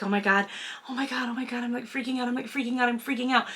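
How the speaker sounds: hushed panicked babble before filming; retold panic. Nervous vlogger retelling her stage fright, hushed panic. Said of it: "I was like".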